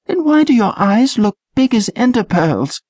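high voiced teen girl, teasing; girl character voice. A narrator's reading. Trish needling her nervous shipmate, high girl voice.

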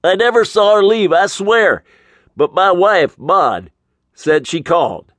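high, loud, panicked yelp; yelping manager. Acted. Manager, nose twisted by Mitch, yelping high. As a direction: squeal it out with your nose being twisted. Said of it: "the manager yelped".

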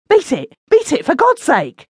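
wounded man urging them to flee; urgent call. A narrator's reading. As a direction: call out to run. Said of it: "called the man who had been stabbed".

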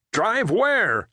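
confused, pressing demand. Acted. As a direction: snap the question back. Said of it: "Jerry demanded".

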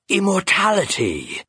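eerie, cold phantom voice, coaxing; a ghostly bird tempting its prey; sinister phantom bird. Acted. Phantom bird tempting the grieving raven, eerie and cold.

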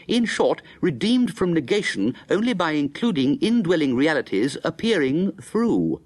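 solemn reading of a philosophy text; reading from a book. Acted. Narrator reading from his old philosophy book, solemn recital. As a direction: read the dense passage aloud, measured. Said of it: "Let's open it and see".

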